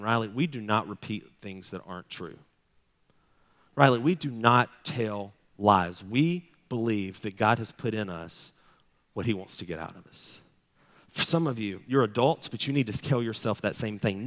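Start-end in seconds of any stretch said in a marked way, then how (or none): 0.0-10.4 put-on gentle correction of a child. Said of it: "I've started stopping him right there and saying".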